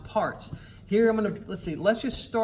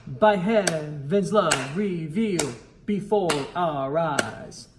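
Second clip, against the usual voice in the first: beats marked, "revealed" held; rhythm demo. Shown as a demonstration. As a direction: chant it in strict time. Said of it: "Let's do it again".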